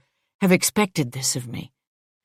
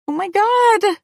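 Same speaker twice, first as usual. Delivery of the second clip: very high, louder cry of dismay; horrified exclamation; 6 dB louder than usual. A narrator's reading. Louise realising they have slapped the boss, horrified.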